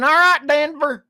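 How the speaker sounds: put-on hillbilly speech to the public in a redneck accent. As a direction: ham up a redneck addressing the city. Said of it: "are you gonna have me getting up there saying".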